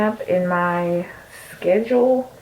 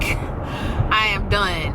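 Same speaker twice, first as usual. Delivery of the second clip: I am done, DONE drawn out and falling; slow emphatic; much slower than usual. Shown as a demonstration. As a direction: stretch out I am done slowly. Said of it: "When I say I will be done".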